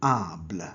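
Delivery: "able" with an open ah, like "ahbl"; "able" as ahbl, not English ay-bl; French "able" ending. Shown as a demonstration. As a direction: say "able" the French way, low and falling. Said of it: "they're pronounced as".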